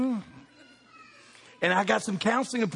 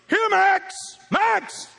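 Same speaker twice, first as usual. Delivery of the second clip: calling the dog; 12 semitones higher, much slower than usual. Retold or imitated. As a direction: call out to a dog outside. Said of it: "I was gonna go".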